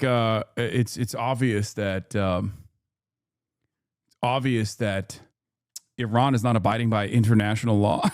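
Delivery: low, halting imitation with long pauses; mocking the guest. Streamer imitating Israeli guest on international law, low halting mockery. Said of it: "he's like".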